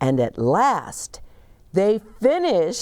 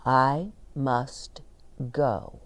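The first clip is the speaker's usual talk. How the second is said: sad farewell; 4 semitones lower, 4 dB quieter, slower than usual. Acted. Bear says goodbye.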